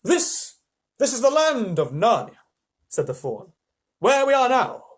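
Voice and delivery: a hint of a proud fawn; grand fawn. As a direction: show off the land grandly. Fawn describing Narnia.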